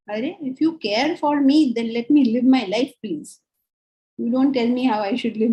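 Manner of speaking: pleading, loud push-back that fades on please; fed-up plea to be left alone; exasperated retort. Acted. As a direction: someone smothered by care snaps back. Exasperated retort to a nagging carer.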